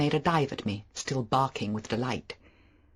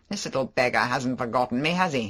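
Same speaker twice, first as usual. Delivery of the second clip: louder, hearty, overfamiliar man; a flashy charmer making excuses; Favell; 4 dB louder than usual. Acted. Favell voiced.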